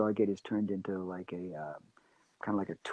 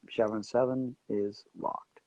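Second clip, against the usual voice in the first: slow, unadorned statement; just listed; slower than usual. Retold or imitated. Actor finishing the audition line as told, simply listed. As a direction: state it like one more list item. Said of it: "And I just listed".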